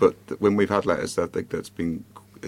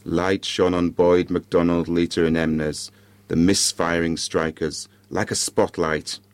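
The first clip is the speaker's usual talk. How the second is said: measured storytelling with dramatic pauses; story narration; 3 semitones lower, slower than usual. A narrator's reading. Podcaster reads a Christmas ghost story to listeners, measured narration. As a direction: read it out in short, spaced phrases.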